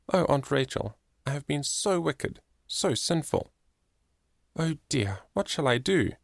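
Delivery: high, tearful confession; a child's teary apology to her aunt; weeping. A narrator's reading. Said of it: "Poor Fanny cried all this".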